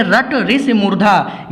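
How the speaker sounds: रट ऋषि मूर्धा drawn out slowly; slow the trick down so it sticks; slow emphasis. Shown as a demonstration. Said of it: "ध्यान से देखिए". (रट ऋषि मूर्धा धीरे-धीरे ज़ोर देकर)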